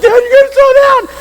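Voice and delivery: high-pitched hammed-up plea to dad; retold screaming. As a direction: yell it high, begging him to wait. Retelling his screamed pleas to dad.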